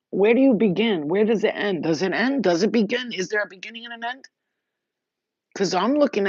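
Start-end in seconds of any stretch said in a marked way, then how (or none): 0.1-4.3 louder, higher, urgent rhetorical questions; impassioned questions. Real, not acted. To her viewers, urging them on, loud and impassioned. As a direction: fire the questions out with mounting passion. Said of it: "That's what I'm hearing".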